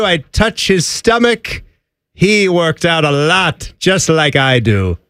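mock South African accent; hammed-up South African golfer's brag; Gary Player. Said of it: "It's Gary Player".

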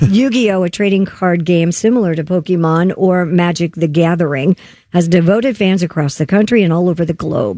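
radio news story delivery; news read. Real, not acted. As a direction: read it out like a newscaster.

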